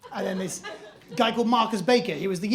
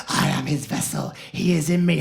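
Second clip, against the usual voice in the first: eerie possessed voice; 7 semitones lower than usual. Retold or imitated. Goth girls whisper incantations.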